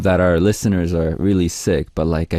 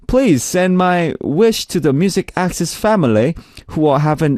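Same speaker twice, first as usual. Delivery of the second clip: higher, sing-song mock-Australian read; Aussie accent; 6 semitones higher than usual. Radio host reads a listener's request for tickets, Aussie accent. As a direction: keep up the put-on Aussie accent. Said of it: "reading your Australian message in Aussie accent".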